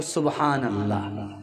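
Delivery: low, drawn-out contented praise; dreamy daughter. Acted. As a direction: savour the blessing.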